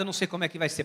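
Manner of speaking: choked-up voice. Retold or imitated. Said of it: "ele me ligou com a voz embargada".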